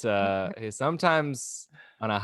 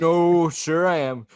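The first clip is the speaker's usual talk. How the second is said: slow, higher-pitched retort with drawn-out words; mock passive-aggressive; 4 semitones higher, 3 dB louder, slower than usual. Luke doubling down to the hiker, mock passive-aggressive. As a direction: imitate agreeing just to needle. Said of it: "double down on passive aggressiveness".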